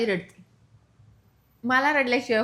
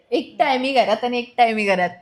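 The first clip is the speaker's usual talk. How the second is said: louder, lightly mimicked husband's grumble; mock complaining; 5 dB louder than usual. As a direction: parrot his complaint back, repetitively. नवऱ्याच्या तक्रारीची नक्कल करते. (नवऱ्याची हलकी नक्कल करत)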